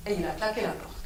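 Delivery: ordinary delivery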